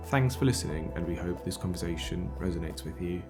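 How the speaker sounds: scripted podcast host's intro; podcast introduction read. Acted. Host introducing an episode on endangered languages, scripted intro read. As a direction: read out a measured welcome to listeners.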